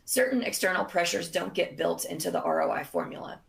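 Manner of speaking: hoarse, voice giving out; strained, fading voice; losing voice. Real, not acted. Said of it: "Sorry, I'm losing my voice".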